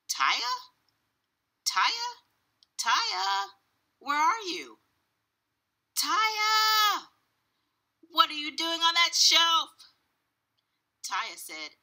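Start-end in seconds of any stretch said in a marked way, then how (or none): 0.1-4.8 high calls, climbing in pitch; searching call. A narrator's reading. Father looking for his daughter, calling out higher and higher. 5.9-9.7 high, loud, astonished cry; shocked shout. A narrator's reading. Father spots Taya among the dolls, shocked shouting. Father finds daughter on the shelf.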